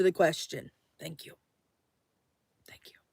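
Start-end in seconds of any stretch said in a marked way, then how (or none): 1.0-1.3 a quiet, fading thank you; soft thanks. Real, not acted. 2.7-3.0 a breathless whispered thank you. Real, not acted. Thanking the viewers, fading out.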